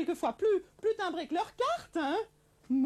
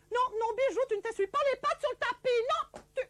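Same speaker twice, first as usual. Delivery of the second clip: raised, higher scolding of the dog; 5 semitones higher than usual. Acted. Marie-Thérèse scolding her dog Bijou for shaking water, raised scolding. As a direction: tell the wet dog off sharply.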